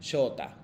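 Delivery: "Shota" as shoo-ta, long o without a u; u left unsounded. Shown as a demonstration. Teacher repeating his name for students, "Shota" with no distinct u. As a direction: let the u melt into the o of "Shota". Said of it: "como si no hubiese existido como u".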